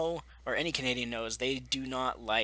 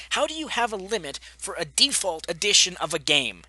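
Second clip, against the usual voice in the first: incredulous retort; 6 semitones higher, 7 dB louder than usual. Retold or imitated. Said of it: "I'm like".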